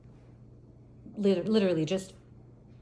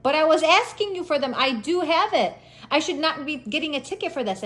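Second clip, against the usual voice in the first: higher, insistent objection; indignant protest; 5 semitones higher than usual. Retold or imitated. Driver arguing she had the papers, indignant protest. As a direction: argue back, aggrieved.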